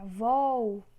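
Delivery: Vol said loud and drawn out; stressed syllable alone. Shown as a demonstration. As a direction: isolate Vol with a firm push. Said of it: "a sílaba tônica".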